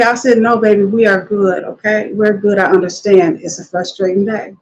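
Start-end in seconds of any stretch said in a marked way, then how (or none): 0.4-2.6 reassuring. Retold or imitated. Soothing the upset customer. 2.6-4.5 soothing. Retold or imitated. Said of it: "When you say that".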